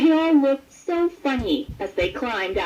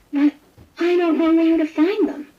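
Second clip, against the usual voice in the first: worried kitten; 7 semitones higher, 6 dB louder than usual. A narrator's reading.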